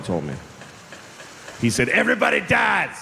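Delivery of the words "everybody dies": raised, blunt mock shout. Grandfather to a seven-year-old at his birthday, mock shout. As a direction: blurt it out like a tactless grandfather.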